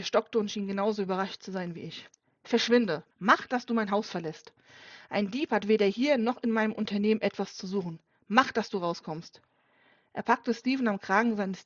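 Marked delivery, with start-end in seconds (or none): 2.4-9.4 angry order. Acted. Father throws the thief out.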